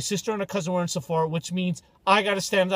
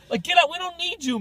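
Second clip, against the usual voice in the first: mock rant; 11 semitones higher than usual. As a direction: shoo them off, hammed-up. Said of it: "during that rant".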